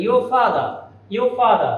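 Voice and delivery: your father as "yo fada", no r; R silent. Shown as a demonstration. Teacher repeating the correct form, your father without r. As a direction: drop both final r's in your father. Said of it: "এই আরটা যদি আমরা উচ্চারণ না করি".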